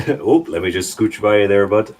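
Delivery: light mock Minnesotan accent; folksy Minnesotan impression. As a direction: play a polite Minnesotan squeezing past. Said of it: "is a Minnesotan accent".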